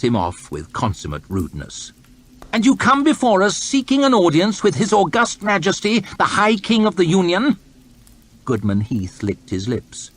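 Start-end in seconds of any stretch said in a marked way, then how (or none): 2.5-7.6 high, disdainful lordly voice; a bored, arrogant official; haughty lord. Acted. Lord chamberlain announcing to his court, disdainful. Hoff talks down to Heath.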